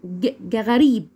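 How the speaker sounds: "غريب" opening on an Arabic ghain. Shown as a demonstration. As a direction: sound out the first letter, then "غريب". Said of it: "زي الغين بالظبط".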